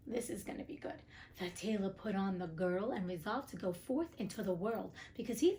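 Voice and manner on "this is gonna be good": soft conspiratorial whisper. Real, not acted. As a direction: lean in and whisper it to listeners. Host teasing what comes next.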